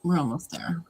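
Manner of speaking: breathless hushed whisper to herself. Real, not acted. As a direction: whisper it like you're sneaking past. Sneaking through the boring part.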